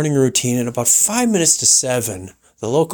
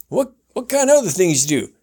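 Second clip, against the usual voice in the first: radio host; 7 semitones higher, faster than usual. Retold or imitated. Host imitated welcoming guest, high showman voice. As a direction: roll it out like a ranch host. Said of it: "talk about something".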